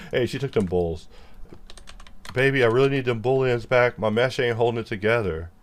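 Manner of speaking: mock country twang lament; hammed-up country crooner; country singer voice. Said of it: "the country lines write themselves".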